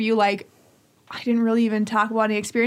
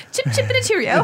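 high, laughing mock British accent; a silly British accent through laughter; 11 semitones higher, faster than usual.

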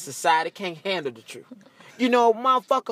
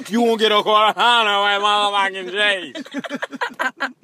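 exasperated yell; 2 semitones higher, 5 dB louder than usual. Acted. Mock customer correcting an order.

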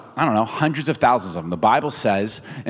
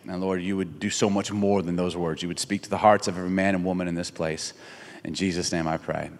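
spoken prayer. Real, not acted. Preacher praying with the gathering before his talk, spoken prayer. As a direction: pray aloud for the room, easing down to the amen.

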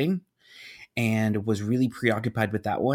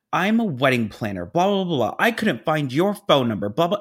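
mildly raised mock rant; imitated screaming; 3 semitones higher, 3 dB louder than usual. Wedding planner unleashing on the office, mock scream. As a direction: rattle off a complaint as an irate caller. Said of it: "she starts screaming".

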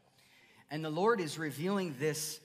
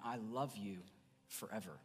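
tender forever; 4 semitones lower, 7 dB quieter than usual. Shown as a demonstration. Pastor showing his church God's lasting love, tender and softer. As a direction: lower and softer, letting I love you forever fade out. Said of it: "he's not just saying".

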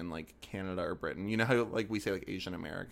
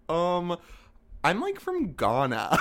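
laughing; 8 semitones higher, 8 dB louder, slower than usual. Retold or imitated. Friend's retort quoted, laughing.

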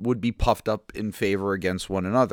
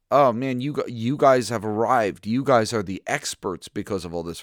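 louder mock admiration, easing off toward the end; mild sarcasm; 3 semitones higher, 4 dB louder than usual. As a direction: congratulate them with a touch of sarcasm. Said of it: "this is almost sarcasm".

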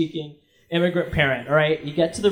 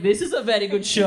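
lightly voiced Greek-accented dad; a hint of Greek dad. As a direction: imitate a Greek father making a remark. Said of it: "this cute little Greek accent".

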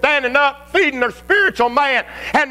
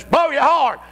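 raging flesh; 7 semitones higher than usual. Acted. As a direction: egg him on into a road-rage fury. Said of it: "Flesh says".

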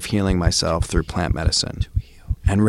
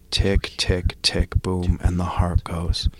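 spoken word poem. Acted. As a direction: perform it like a slam poem. Spoken word poem opening podcast.

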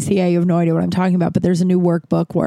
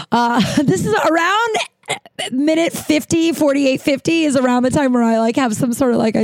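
laughing, higher voice, a bit slowed; laughing aside; 7 semitones higher than usual. Real, not acted. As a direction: giggle through the timestamp note. Self-conscious aside about the episode.

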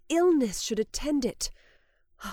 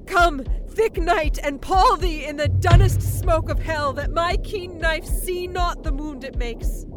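dark invocation; 3 semitones higher than usual. Acted. Lady Macbeth invokes spirits.

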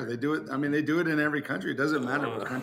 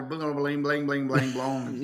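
guitar imitation. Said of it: "It sounds like a guitar".

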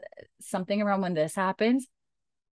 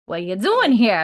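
surprised; 3 semitones higher, 8 dB louder than usual. Retold or imitated. Retold surprised greeting.

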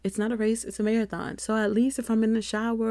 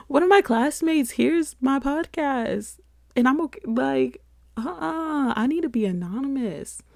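mock panic; 6 semitones higher, 4 dB louder than usual. Mock panic about being found.

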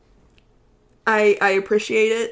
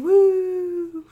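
high, bright cheer for herself; excited woo; 10 semitones higher than usual. Real, not acted. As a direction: celebrate turning twenty-one. Cheering own birthday.

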